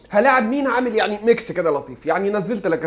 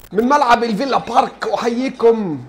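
light slow mock commentator greeting with a laugh; Fares Awad; 3 semitones higher, 4 dB louder, slower than usual. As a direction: open the match like a TV commentator, half laughing. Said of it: "فارس عوض". (تقليد خفيف لمعلق رياضي بيحيي المشاهدين)

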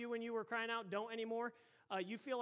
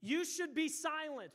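higher, louder scolding; rebuking; 5 semitones higher, 4 dB louder, slower than usual. Acted. Preacher acts those in front silencing beggar, rebuke. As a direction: firmly order someone to hush. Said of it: "Rebuked him".

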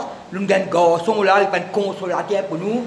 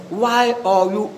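French-accented English; slower than usual. Shown as a demonstration. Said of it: "excuse-moi mon anglais".

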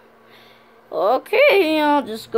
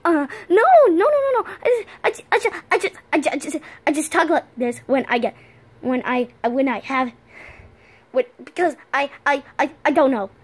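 nervous. Acted. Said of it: "You sound nervous".

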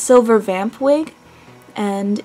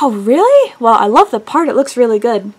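gushing salon worker; 4 dB louder than usual. Retold or imitated.

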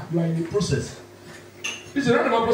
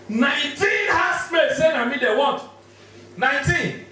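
raised, proud shout; higher excited shout of the number; excited boast; 6 semitones higher than usual. Real, not acted. Boasting to the crowd.

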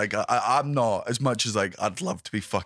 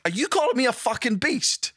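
mock outrage; 12 semitones higher than usual. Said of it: "And I'm like".

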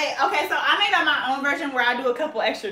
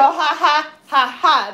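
demo of dance beats; 3 semitones higher, 6 dB louder, much slower than usual. Shown as a demonstration. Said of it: "I meant to go".

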